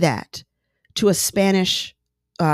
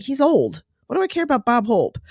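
higher-pitched, mock dismissive quote; dismissive young self; 5 semitones higher than usual. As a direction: imitate a youngster brushing off old people. Young self dismissing an old star.

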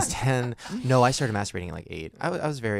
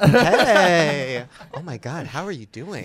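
loud, high, drawn-out hey; excited greeting; 4 semitones higher, 9 dB louder, much slower than usual. Real, not acted. Host welcoming a nervous guest on, loud excited call. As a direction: call out a big welcome, pitched up. Greeting fiancée joining the show.

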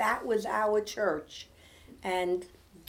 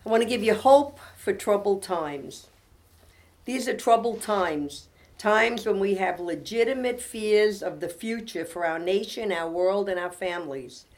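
devotional reading; 4 dB louder than usual. Acted. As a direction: read it as comfort for troubled listeners. Reads devotional aloud to close.

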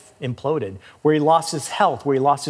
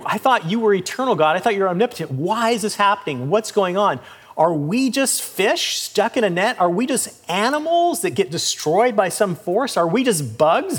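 shocked wondering; 4 semitones higher than usual. Acted. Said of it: "he's wondering".

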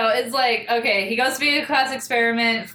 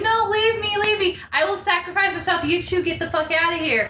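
mock heroic sacrifice; 6 semitones higher than usual. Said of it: "he's like".

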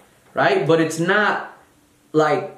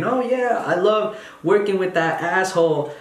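fake happy; 3 semitones higher than usual. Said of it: "all happy and shit saying".

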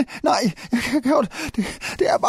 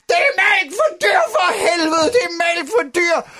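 high, melodramatic alarm cry; shouted warning; 4 semitones higher than usual. Acted. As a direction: shout it to warn everyone. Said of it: "så råbte jeg højt for at advare de andre". (højt advarende råb)

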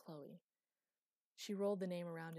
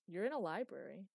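loud call from downstairs; unsympathetic call back; 8 dB louder than usual. A narrator's reading. Master to Chloe from below, calling out. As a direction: call it back without sympathy. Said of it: "came the unsympathetic answer".

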